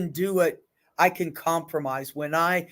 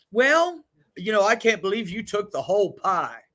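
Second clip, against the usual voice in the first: mock aggrieved friend; 3 semitones higher than usual. Acting out pie argument, high voice.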